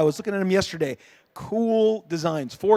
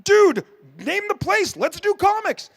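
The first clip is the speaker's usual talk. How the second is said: eager yes; 11 semitones higher, slower than usual. Retold or imitated. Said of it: "And I'm like".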